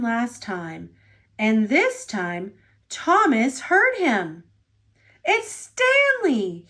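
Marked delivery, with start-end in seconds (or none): 5.2-6.7 high, slow gasp of relief. Acted. Trapped engine gasps on hearing his rescuer. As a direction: gasp out the name, hardly believing it. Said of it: "he gasped".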